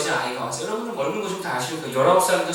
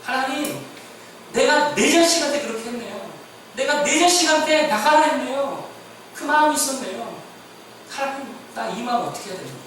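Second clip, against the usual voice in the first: a higher, pleading prayer with only a touch of tears; retold tearful prayer; 8 semitones higher than usual. Pastor reliving his repentant prayer, mild tearful pleading. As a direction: cry out to God in mild anguish. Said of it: "오열하면서 회개했어요".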